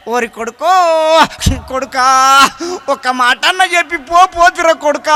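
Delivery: loud mock lament for a son; mock mourning wail. Parent at the son's body, mock wailing lament. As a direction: cry out to the son, hammed up. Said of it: "ఎట్లా ఏడుస్తారంటే".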